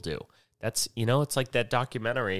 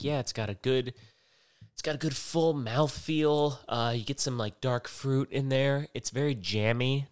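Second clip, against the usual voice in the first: sommelier voice; 5 semitones higher than usual. Retold or imitated. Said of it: "I'm like".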